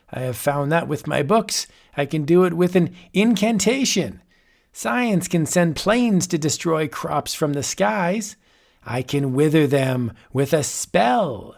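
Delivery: a mad sorcerer toying with his guest; chuckling old warlock; old wizard. Acted. Wizard character speaks.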